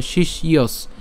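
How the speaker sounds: "শিষ্যস" slowly, split as shish-yos; teacher sounding out "শিষ্যস" with a clear y; broken-down pronunciation. Shown as a demonstration. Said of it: "জফলা উচ্চারণ ইয়র মতো হবে".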